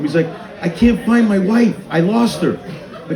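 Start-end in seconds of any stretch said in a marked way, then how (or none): 0.6-2.5 panicked husband. Acted. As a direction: act out a mildly frantic husband. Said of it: "he was having a panic attack".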